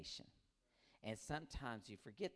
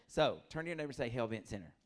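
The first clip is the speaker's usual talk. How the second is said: preacher mode; 7 dB louder than usual. Retold or imitated. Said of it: "I was like".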